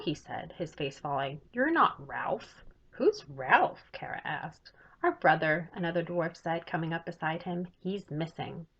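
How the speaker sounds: put-on lively read-aloud for children; story narration. A narrator's reading. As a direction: tell the story brightly to young listeners. Author reads her chapter book aloud.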